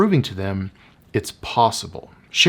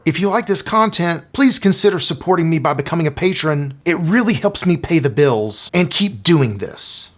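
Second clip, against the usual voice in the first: higher, pleading mock-creator voice; a lightly hammed-up desperate plea; begging creator; 5 semitones higher than usual. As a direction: beg your audience for support, pitched up. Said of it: "comes across as a desperate plea with our audience".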